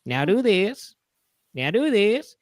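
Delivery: rising mock stage commands, last one slow; hammed-up magician instructing the audience. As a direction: lead the crowd in ever harder tricks. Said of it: "he goes".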